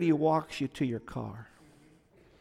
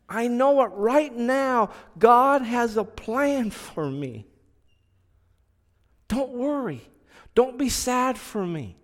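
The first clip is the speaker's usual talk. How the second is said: consoling; 5 semitones higher than usual. Retold or imitated. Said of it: "I consoled her".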